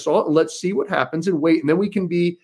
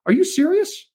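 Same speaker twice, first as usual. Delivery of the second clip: high, laughing disbelief; incredulous laugh. Retold or imitated. Laughing at a Democrat's dog covid claim, incredulous. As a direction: scoff at it as absurd. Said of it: "I started laughing".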